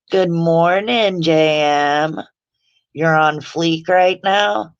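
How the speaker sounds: loud, slow, high greeting; excited greeting. Real, not acted. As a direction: call out happily to a friend. Greeting a chat viewer loudly.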